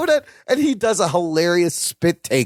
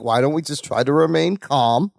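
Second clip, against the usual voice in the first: lower, mildly calming quote; retold calming; 5 semitones lower than usual. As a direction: imitate someone trying to calm everyone. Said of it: "He's trying to calm everyone down".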